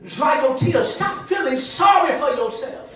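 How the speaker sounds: drawn-out loud opening, then firm command; forceful preaching. Real, not acted. Preacher telling mothers to stop crying, forceful preaching. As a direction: stretch the key words, then exhort firmly. Preacher voices God's rebuke.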